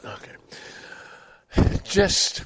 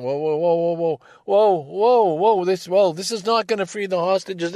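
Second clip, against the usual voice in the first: alarmed realization; 6 semitones higher, 3 dB louder than usual. Retold or imitated. Voicing sudden realization.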